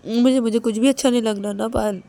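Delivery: stammered, urgent begging; desperately pleading Ananya. Acted. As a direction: beg for a response, repeating anxiously. Ananya begs Payal to respond. (बेचैनी से बार-बार मिन्नत)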